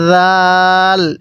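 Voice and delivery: জাল with a soft z-like start, long-held aa. Shown as a demonstration. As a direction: ease into জাল and stretch it slowly. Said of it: "জালটাও নরম আকারে পড়তে হবে". (জাল নরম করে টেনে)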